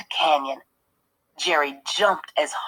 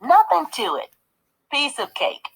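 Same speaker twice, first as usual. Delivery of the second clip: calling out; 8 semitones higher than usual. A narrator's reading. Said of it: "he called".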